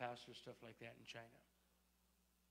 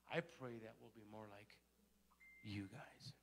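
whispered aside; 3 semitones lower, 9 dB quieter than usual. Retold or imitated. Retelling a humble pastor's plea, whispered. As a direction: drop to a soft whisper on the last words.

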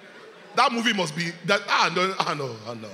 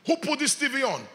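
mock angry demand; 5 semitones higher than usual. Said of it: "and I'm angry".

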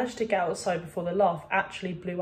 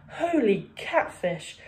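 squeak; 5 semitones higher, 5 dB louder than usual. A narrator's reading. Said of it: "he squeaked".

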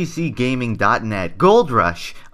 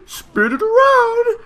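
very high squeal; 7 dB louder, slower than usual. Acted. Spinning in game.

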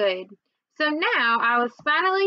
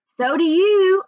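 higher, louder yell; hollering; 8 semitones higher, 8 dB louder, slower than usual. A narrator's reading. Georgina hollering at her brother Toby, high and loud. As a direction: holler it right back at him. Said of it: "I hollered".

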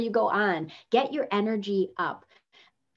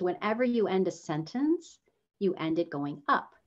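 "up" ends on a rise; rising sentence ending; 3 dB quieter than usual. Shown as a demonstration. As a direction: lift the end of the sentence. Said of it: "So in other words".

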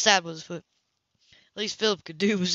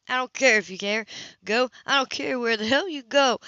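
put-on a kid's fury, pitched higher and louder; a boy yelling he doesn't care; boy's fury; 5 semitones higher, 4 dB louder than usual. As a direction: spit it out, hurt and furious. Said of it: "The underlined fury in the boy's voice".

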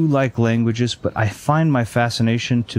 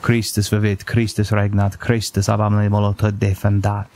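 Latin prayer. Retold or imitated. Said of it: "the prayer".

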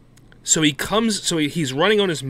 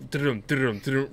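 spoken hoofbeat noise; imitated galloping mount; 5 dB quieter than usual. Friend riding out of the portal, imitated galloping sound. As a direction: voice the mount's trotting rhythm.

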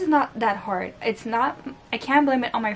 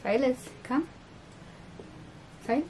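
high-pitched pet-calling voice; short high calls to a pet; calling a cat; 10 semitones higher, 4 dB quieter than usual. Real, not acted. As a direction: coax the cat over in a high voice. Coaxing the cat over.

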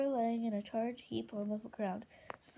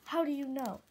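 louder, insistent question; heated demand; 3 semitones higher, 5 dB louder than usual. Acted. Winter shakes Moon for an answer, heated demand.

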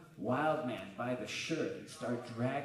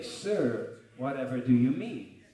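mock posh innocence; 9 dB louder, slower than usual. Mock-polite reply to owner.

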